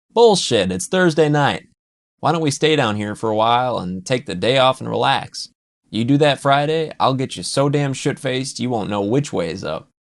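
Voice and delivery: booming, high burst of protest; loud protest. Acted. Pete shouting down Jude's plan to leave, loud and high. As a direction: bellow it like you won't take no. Pete pushes to stay and party.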